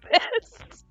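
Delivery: wheezing from laughing; breathless wheezy laugh-talk. Real, not acted. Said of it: "I'm wheezing so bad".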